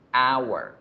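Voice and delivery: "hour" opening on a vowel, like "awar"; silent H. Shown as a demonstration. Teacher repeats the example for students, "hour" with mute H. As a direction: leave the H out of "hour". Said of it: "la H no suena".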